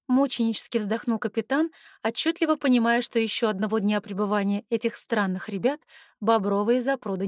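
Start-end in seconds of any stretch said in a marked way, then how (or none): none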